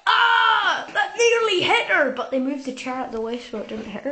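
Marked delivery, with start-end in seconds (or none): 0.1-2.1 shocked shout. Retold or imitated. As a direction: cry out as it nearly hits her.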